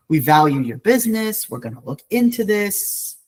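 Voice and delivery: mock customer-service reply, pitch lifting at the end; passive-aggressive brush-off. Airline answering a complaint, passive-aggressive brush-off. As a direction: imitate an airline's empty, polite assurance. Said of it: "this sort of passive-aggressive approach".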